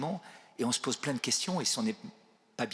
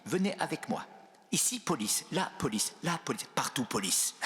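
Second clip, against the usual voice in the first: put-on light Chinese accent, mostly higher-pitched; slight Chinese accent; 4 semitones higher than usual. Bishop warning visitor of police, imitated Chinese accent. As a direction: imitate a Chinese speaker's halting French, lightly. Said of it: "mais petit accent chinois".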